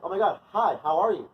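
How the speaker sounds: mock-delighted hello; gushing greeting. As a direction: act an oblivious, over-friendly greeting. Acting the oblivious person's greeting.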